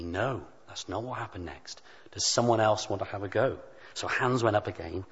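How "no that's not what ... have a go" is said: put-on soft, gentle correction to a child; gently. Preacher gently correcting a seven-year-old at lunch club, softly. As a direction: let the child down softly, no scolding. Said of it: "And I said gently".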